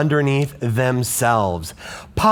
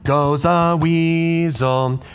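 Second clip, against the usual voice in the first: other rhythm; 3 semitones higher, slower than usual. Shown as a demonstration. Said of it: "What about on the third one?".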